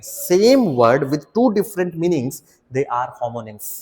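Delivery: each word of "same word with two different meanings" drawn out; slow, deliberate definition. Shown as a demonstration. Teacher defining homonyms for students, very slow. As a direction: spell out the definition slowly for dictation.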